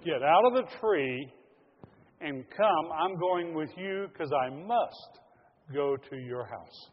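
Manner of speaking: loud, slow, insistent call; Jesus insisting he comes down now, loud and slow; firm summons. Acted. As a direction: summon him down with slow force. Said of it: "He said".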